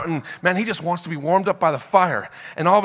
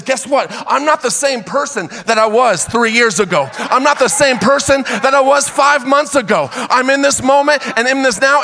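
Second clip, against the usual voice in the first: Paul defiant; 6 semitones higher than usual. Retold or imitated. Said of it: "he looks at the snake and he says".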